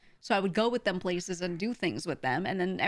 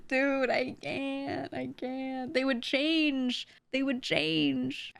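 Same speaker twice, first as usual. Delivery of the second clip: slow, higher mock dude voice; mock flustered guy voice; 5 semitones higher, much slower than usual. Mocking gamer guys who change around girls, slow and higher. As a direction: drawl it out like a guy showing off. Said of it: "put on the Velo voice".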